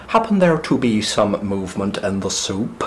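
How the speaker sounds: put-on muddled West Country and Irish accent; lightly put-on, stray Somerset-Irish accent; wandering Somerset-Cork accent. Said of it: "somewhere on the border between Somerset and County Cork".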